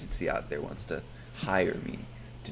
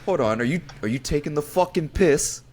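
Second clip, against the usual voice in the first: put-on British accent; 5 semitones higher, 4 dB louder than usual. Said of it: "get a different accent".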